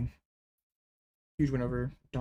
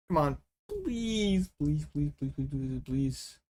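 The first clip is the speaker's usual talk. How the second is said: pleading; 5 dB quieter, slower than usual. Real, not acted. Begging for the draw.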